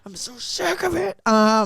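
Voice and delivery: high whiny mock complaint; mimicking a whiny manager; mock whine.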